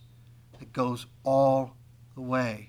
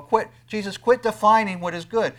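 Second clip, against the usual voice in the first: mock protest; 6 semitones higher, 7 dB louder than usual. Imitating protesting listener.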